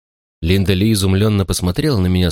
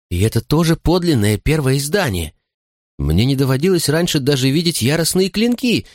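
Linda Lee; 3 semitones higher than usual. Acted. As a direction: lift the voice for the heroine. Linda Lee's lines.

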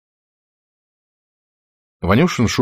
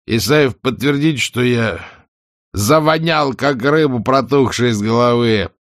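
mocking shout; 5 semitones higher, 4 dB louder than usual. Heckler keeps jeering merrily.

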